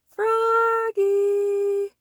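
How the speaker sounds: high, loud long call across the house. A narrator's reading. Mother calling Froggy from another room, long call. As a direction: call him from the other room. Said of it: "called his mother".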